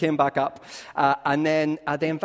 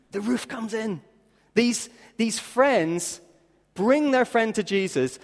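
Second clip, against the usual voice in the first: very slow, weighty delivery; slow emphatic preaching; 7 semitones higher, 5 dB louder, much slower than usual. Acted. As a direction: stretch every word out.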